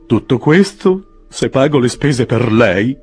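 slow, indignant retort. A narrator's reading. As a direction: bristle at the offer. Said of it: "disse sdegnato mister Pickwick".

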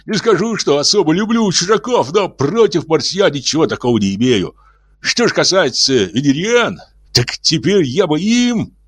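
high, quick whistling voice; hurried whistling voice. Acted. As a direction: rush it with hissing, whistling sounds. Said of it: "торопливым, свистящим голосом".

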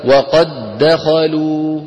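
وقد دخلوا recited slowly with doubled د; slow recited model. Shown as a demonstration. Teacher models the line for students to repeat. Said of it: "قولوا ورائي".

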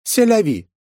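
high, loud scoffing shrug; snorted dismissal. A narrator's reading. Yufi snorts at Pavel dismissively. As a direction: brush him off with a snort. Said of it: "фыркнула земля".

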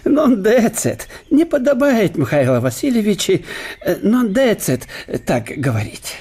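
чуть громче, назидательно; пожурить по-дружески; мягкий упрёк профессора. Acted. Штелин мягко упрекает. (гость мягко журит Ломоносова)

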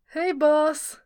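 sheepish. Acted. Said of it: "Glorfindel offered sheepishly".

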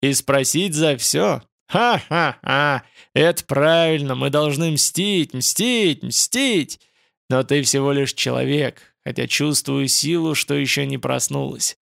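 booming spirit with cackling laugh; booming echoing voice. Acted. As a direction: thunder it out, gloating. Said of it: "Гулкий голос загрохотал". (гулкий грохочущий голос)

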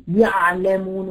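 "يعلمون" with a choked ayn; over-squeezed, throttled ع in "يعلمون"; strangled ayn. Shown as a demonstration. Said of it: "ويخنقها كده".

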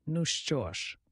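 mild, placating concession; conciliatory. A narrator's reading. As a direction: give in gently. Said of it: "Пугач примирливо промовив". (примирливо)

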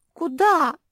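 high squeaky little question; squeaked. A narrator's reading. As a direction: squeak it like a puppy. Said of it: "пропищала Куки".

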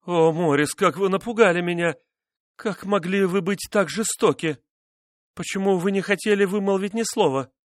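high, trembling pleading; frightened reproach. A narrator's reading. Wife begging husband why he stayed silent, afraid. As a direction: plead with him, scared and hurt.

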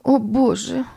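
high, building to loud screams of a name; mother screams as the child is taken; desperate outcry. A narrator's reading. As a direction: cry out to God, then scream for Berni. Desperate plea, calling.

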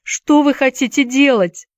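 high-pitched panicky question; alarmed cry. A narrator's reading. Scared boy questioning the plan, alarmed cry. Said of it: "закричал Уилл".

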